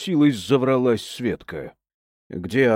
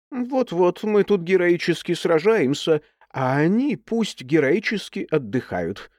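sarcastic grumble, higher pitch; grumbling; 7 semitones higher than usual. Acted. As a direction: grumble it with mock heroics. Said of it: "ворчать продолжала". (ворчливо, с сарказмом)

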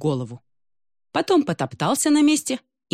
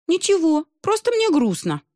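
mock sad; 12 semitones higher, 3 dB louder than usual. Mermaid sadly whines.

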